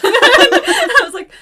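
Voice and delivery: high, loud, slowed by laughter; real laughter; laughing. Real, not acted. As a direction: crack up mid-story. Laughing recalling mechanic's face.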